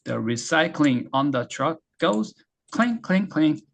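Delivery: very slow and even, word by word; slow teaching read. Shown as a demonstration. Teacher modelling the line for students. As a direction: read it slowly, stressing "recycling". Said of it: "스트레스가 음절".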